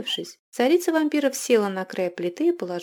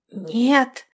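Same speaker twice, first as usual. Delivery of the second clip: louder, higher sudden scared exclamation; frightened cry; 5 semitones higher, 7 dB louder than usual. Acted. Vampire queen frightened by his threat, crying out. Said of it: "воскликнула царица вампиров, напуганная".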